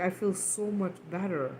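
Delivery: softly retold, settled child; calmed down. Daughter confiding in mom after letting it out, calmed down. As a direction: let it out quietly, calm after venting. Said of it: "when she had calmed down".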